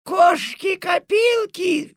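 high, drawn-out furious shout; furious yell. Acted. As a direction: bellow it in a rage. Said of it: "в ярости завопила".

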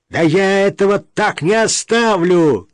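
loud, high-pitched indignation; seething. A narrator's reading. Brother refuses to accept the will, seething. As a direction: boil over and threaten. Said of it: "кипятился его брат".

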